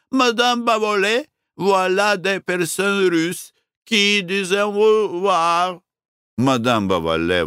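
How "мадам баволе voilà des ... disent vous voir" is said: high call across the room. Acted. Waitress calling the fat owner over, calling out. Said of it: "крикнула".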